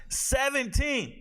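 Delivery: high, slow stretched Seventeen; drawn-out mockery. Real, not acted. Mocking ESPN's ranking, stretched Seventeen. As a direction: drag out Seventeen in disbelief.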